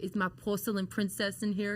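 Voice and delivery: lightly imitated mentor at the door; a hint of the older coach's voice; Dusty Rhodes. Mentor knocks looking for his trainee, lightly imitated. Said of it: "he's like".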